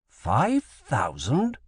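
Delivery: slow, rising disbelief on five; stunned repeat of the number; surprised echo. Acted. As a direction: drag out five thousand as a question. Drury echoes the number, surprised.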